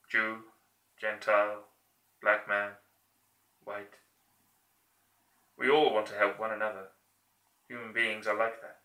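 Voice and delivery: heartfelt plea, held back; dictator speech. Acted. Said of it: "that version of his speech".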